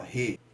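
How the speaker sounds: "retorno" in separate syllables, TOR standing out; re, TOR, no with pauses between; stressed syllable demo. Shown as a demonstration. Teacher showing the tonic syllable, split with stressed TOR. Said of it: "uma ascendência no tor".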